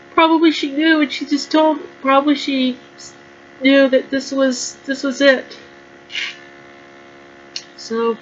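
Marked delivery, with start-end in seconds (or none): 0.1-5.6 crying. Real, not acted. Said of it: "I'm crying a bit here".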